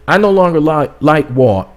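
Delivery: slipped into a light British accent on "I no longer like Walt". Real, not acted. Host to viewers, an accidental light British accent. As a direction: say "I no longer like Walt" with a touch of British, like you're from a famous British band. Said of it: "Dang, where did that accent come?".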